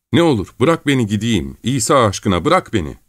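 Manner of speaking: high-pitched, desperate begging; frightened pleading. Acted. Gavrila begging Çelkaş for release, frightened pleading. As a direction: beg to be let go, close to tears. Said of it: "korkudan tir tir titreyerek yalvarmaya başladı".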